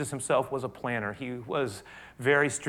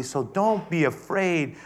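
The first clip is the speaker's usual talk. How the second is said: tender; 5 semitones higher, 4 dB louder, slower than usual. Shown as a demonstration. Jesus comforting his frightened disciples, tenderly. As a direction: ease the fear out of it slowly. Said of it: "then he says tenderly".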